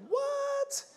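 high squeaky shocked what; girl can't believe her ears. Retold or imitated. Girl hearing the teacher's topic, squeaky shocked.

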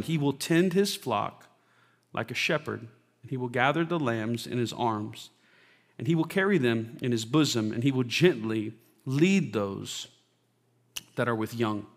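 unhurried public reading of scripture. Real, not acted. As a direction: read it gently and deliberately, pausing between phrases. Reads scripture aloud to congregation.

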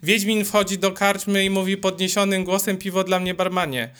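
mock run-on reading, narration and quote in one breath; imitating a careless reader. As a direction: rattle it off ignoring every comma, like a bored kid reciting. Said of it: "olewa stare znaki interpunkcyjne". (przedrzeźnianie czytania bez przecinków, jednym ciągiem)

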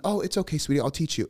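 high, cooing mock-motherly reassurance; pretend mom. Daughter as mom comforting her clueless pupil, high imitated voice. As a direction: imitate a child playing a soothing mother. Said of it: "So she's mom".

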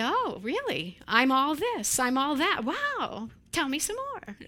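mock smug child, lightly voiced; smug pride. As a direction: play the flattered kid lapping it up. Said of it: "where they say".

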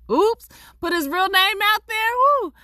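high, loud yelp at a slip; startled oops. Real, not acted. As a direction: exclaim at your own blunder, voice shooting up. Catches own slip of real name.

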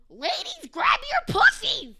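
very loud, high, stretched-out holler; hammed-up slogan shouting; mock rallying yell. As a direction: yell it like a call to a crowd. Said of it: "going around yelling".

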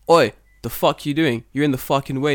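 mock angry confrontation. Confronting man on train.

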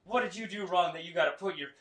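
loud, high Southern preacher; Joel Osteen. Retold or imitated. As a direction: exhort the congregation in a Southern accent. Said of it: "He's like, this Southern accent".

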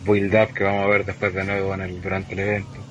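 choppy, robotic online call audio; broken-up voice over a bad connection; laggy robotic connection. Real, not acted. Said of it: "te escucháis súper lag".

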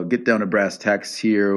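ordinary talk, nothing marked

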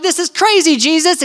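high, incredulous objection; scoffing crowd. Acted. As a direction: scoff at him in disbelief. Mocking crowd acted out.

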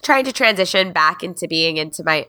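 stuffed nose, real cold; talking through a blocked nose; nasal voice. Real, not acted. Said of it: "sorry for my, my nasally thing".

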